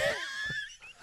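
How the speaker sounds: a high shrieking laugh that breaks out despite himself; can't hold the laugh in, it bursts out high; burst of laughter. Real, not acted. Interviewer hears the sad story and bursts out laughing. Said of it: "I shouldn't be laughing".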